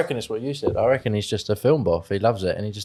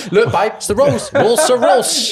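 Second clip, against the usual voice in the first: higher, laughing through it; laughing mock rule; 11 semitones higher than usual. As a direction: lay down the law while cracking up. Mock cinema sign rules.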